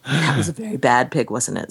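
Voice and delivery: a hint of a solemn Death gently scolding. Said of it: "says Death".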